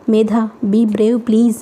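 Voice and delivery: slow, gentle begging; pleading softly. Acted. Prabhakar gently begs grieving Medha to be brave, slow soft pleading. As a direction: plead with her, drawing the words out. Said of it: "అని బ్రతిమలాడుతున్నాడు".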